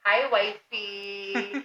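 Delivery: very slow, cutesy imitated hello to a wife; imitating a doting spouse, long vowels; drawn-out mock greeting. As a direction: stretch it out slowly, playfully. Acted greeting between wives in retelling.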